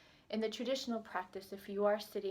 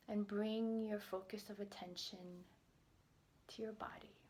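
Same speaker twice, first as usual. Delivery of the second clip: guided meditation. Acted. Pediatrician guiding tired healthcare providers into a body scan, calm meditation voice. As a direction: ease listeners into stillness, leaving space between phrases.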